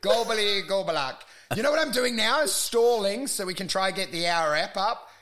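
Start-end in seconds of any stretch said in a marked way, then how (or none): 0.0-1.2 mock broken-phone babble; garbled gibberish voice. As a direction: babble like a cutting-out call. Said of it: "That's all I hear you saying now".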